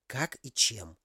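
soft whispered question. A narrator's reading. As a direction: ask it under your breath. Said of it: "также шёпотом спросила женщина".

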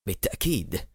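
soft, husky, drained reply; faint croak of agreement; pale, hoarse voice. A narrator's reading. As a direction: answer weakly, with the voice gone hoarse. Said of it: "يجيب بصوت شاحب مبحوح".

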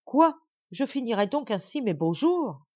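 a very high, loud shriek, then pleading; despairing shriek. Acted. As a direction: wail at her fate. Princess in despair. (cri désespéré)

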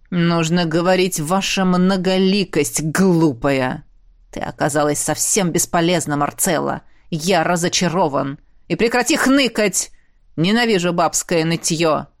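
a hint of a cold, contemptuous ruler; emperor, contemptuous. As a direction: scold her with icy contempt. Emperor scolds concubine.

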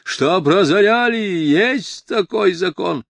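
loud indignant roar with lifted pitch; barked. A narrator's reading. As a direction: bark it out as an irate official. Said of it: "рявкнул бургомистр".

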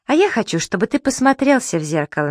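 won't let it drop; insisting. A narrator's reading. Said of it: "настаивал на своём Зубастик".

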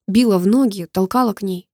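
usual speaking voice

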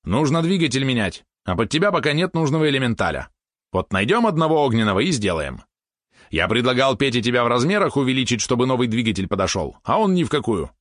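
high, lively pet character; eager pet helper. Acted. Valeron breaks bad news to Mitya, lively high voice.

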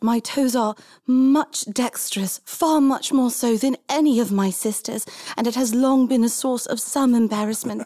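a hint of a coy, embarrassed noblewoman; coy lady. Lady answering the duke with a coquettish tilt. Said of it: "tilt of her head and says".

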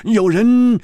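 high, animated deduction; excitable Hu Tiehua. Acted. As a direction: reason it out eagerly in a high voice.

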